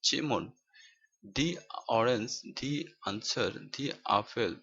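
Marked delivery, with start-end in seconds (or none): 1.4-4.5 "the" said with an ee vowel; "the" as thee. Shown as a demonstration. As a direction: say "the" as "dee" before each vowel word. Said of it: "দি এর উচ্চারণ হবে দি".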